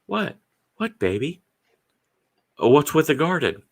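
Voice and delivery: put-on wife finding drunks all over the garden, high and baffled; high shocked wife. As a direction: squeak out her shock at the yard. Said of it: "she's like".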